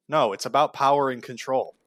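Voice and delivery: ordinary talk, nothing marked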